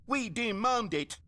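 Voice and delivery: high, slow, insistent mock demand; mimicked demanding player. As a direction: stretch it out like a spoiled customer. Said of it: "where someone will say".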